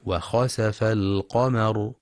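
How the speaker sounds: وخسف with fatha on the س, said slowly; open sin. Shown as a demonstration. Teacher giving the correct reading, slow and careful. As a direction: keep the sin open, khasafa. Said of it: "والصواب فتح السين".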